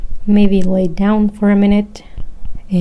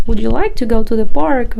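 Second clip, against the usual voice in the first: acted polite, indirect ask; mildly imitated tentative invitation; validation-seeking question; 3 semitones higher, 4 dB louder than usual. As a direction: suggest it as a question, fishing for agreement. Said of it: "a way of getting validation from the other".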